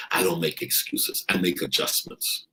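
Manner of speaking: quiet inner voice. Retold or imitated. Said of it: "you start to realize".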